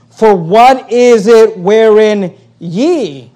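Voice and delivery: slow, emphatic challenge turning the tables; sarcastic. Retold or imitated. Preacher quotes Paul turning the tables on the church, sarcastic. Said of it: "you can see his sarcasm".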